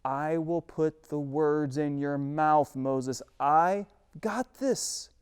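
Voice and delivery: slow, unhurried God; God promising Moses the words, slow; patient God. Acted. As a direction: lay each word down calmly. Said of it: "God says".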